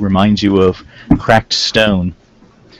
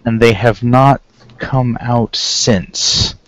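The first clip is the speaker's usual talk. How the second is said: put-on slow, deliberate, lightly Terran-accented councilman; much slower than usual. Councilman to visitors about their missing friends, light Terran accent. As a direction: speak slowly with a slight invented Terran accent. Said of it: "he has a strong Terran accent".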